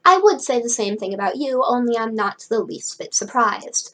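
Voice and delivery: mildly smug, knowing reply. Acted. Cleo not surprised to see Frankie, smugly. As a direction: sound pleased with yourself. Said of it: "Cleo said smugly".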